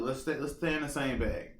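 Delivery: ordinary talk, nothing marked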